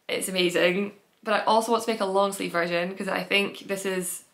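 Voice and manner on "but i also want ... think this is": talking through hiccups. Real, not acted. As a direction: speak with little hiccups breaking in. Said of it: "sorry about the hiccups".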